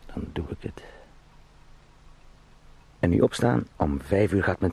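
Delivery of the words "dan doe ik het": barely voiced, a secret promise to himself; whispered resolve. Clerk in bed whispering his plan to quit, hushed. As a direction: breathe the words out, no voice.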